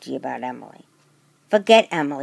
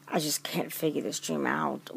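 whispered puzzlement; 3 semitones lower, 9 dB quieter than usual. Acted. Puzzled girl alone with friend.

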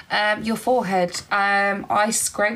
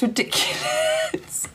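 giggling through the words, then a burst of laughter; laughing; slower than usual. Real, not acted. Showing her hair to viewers, laughing at herself. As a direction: laugh at your own hair as you say it.

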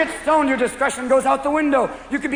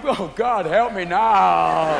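stoned panic; 3 semitones lower, much slower than usual. Acted. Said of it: "you're inside stone going".

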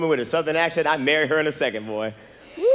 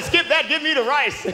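exasperated; 8 semitones higher, slower than usual. Retold or imitated. Ordering after snapping at waiter.

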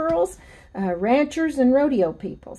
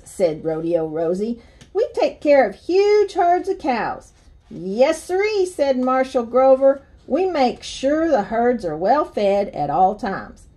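lively storybook reading with swinging pitch; story read to children. Acted. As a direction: read a picture book aloud to kids. Reads children's book aloud.

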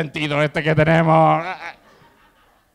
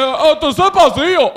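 high, louder mock Chinese accent; hammed-up Chinese-accented outburst; mock Chinese shopkeeper accent; 9 semitones higher, 5 dB louder than usual. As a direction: exclaim like a caricatured Chinese shopkeeper. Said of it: "Y te dice".

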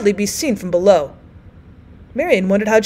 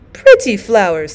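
insisting; 6 dB louder than usual. Acted. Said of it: "the first woman insisted".

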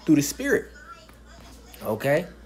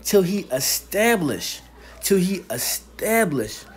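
slow, drawn-out preacher's reading; scripture reading; slower than usual. Real, not acted. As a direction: proclaim the verse phrase by phrase. Preacher reads scripture aloud emphatically.

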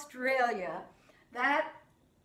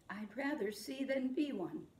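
soft echo; 6 dB quieter than usual. Shown as a demonstration. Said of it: "you say it back to me".

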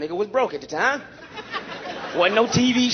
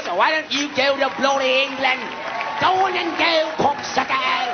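mock taunt. Telling whites to go home.

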